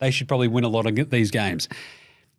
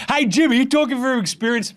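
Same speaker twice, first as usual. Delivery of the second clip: teasing voice; 10 semitones higher than usual. Acted. Co-host teasing voice.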